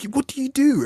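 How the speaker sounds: high, loud disbelieving "what"; incredulous question. Retold or imitated. Asking a well-paid consultant what she does, incredulous and high. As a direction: ask it in outraged disbelief.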